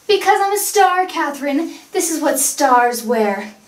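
haughty celebrity diva; vain. Acted. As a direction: look down on her like a star. Diva explaining her outfit.

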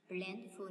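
"plentiful" with the first syllable stressed. Shown as a demonstration. Teacher going through answers, first syllable of "plentiful" stressed. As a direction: hit PLEN in "plentiful". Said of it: "nhấn âm đầu".

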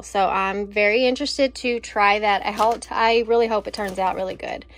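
slightly winded, catching breath. Real, not acted. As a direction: talk while short of breath. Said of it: "Whew, I'm out of breath".

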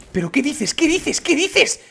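high, astonished exclamation; real astonishment, pitched right up; incredulous. Real, not acted. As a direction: fire it out high in disbelief. Disbelief at a game discovery.

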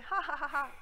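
a put-on guffaw, spelled out; mocking trucker laugh. Imitating the trucker laughing at her, mock guffaw. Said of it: "el camionero se empieza a reír".

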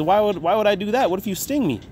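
a lightly voiced cautious turtle; wary turtle. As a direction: play a doubtful turtle. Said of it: "And the turtle says".

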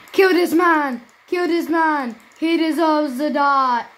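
loud, fierce game shouting; angry yell at the opponent in the game. Real, not acted. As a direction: yell at the enemy in anger. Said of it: "I was kinda mean".

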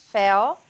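FELL with the open E of Érica; "Fell" on an open eh, ending in a dark L; open E vowel. Shown as a demonstration. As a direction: model "Fell" with a clear eh. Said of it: "aquele mesmo E de Érica".

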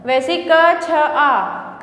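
क छ आ spelled out without the u; wrong letters read out. Shown as a demonstration. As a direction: read क, छ, आ as separate sounds. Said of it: "कछुआ नहीं होता".

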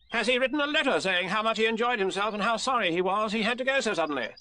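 pressing question in a high character voice; officious Rabbit. Acted.

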